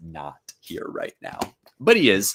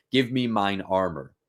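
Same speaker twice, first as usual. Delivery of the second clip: slow, raised voice for the play's lines; dramatic Shakespeare reading; 4 dB louder than usual. Acted. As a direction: read the scene like a stage actor. Reads Macbeth scene aloud.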